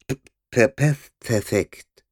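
half-choked, muffled through padding. Acted. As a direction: gasp it out muffled and winded. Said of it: "halb erstickte Stimme aus der Polsterung".

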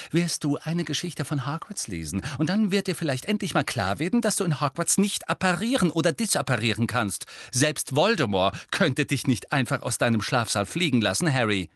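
high-pitched exasperated lecture; gründlich verärgert. A narrator's reading. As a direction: spell it out, thoroughly fed up. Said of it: "klang gründlich verärgert".

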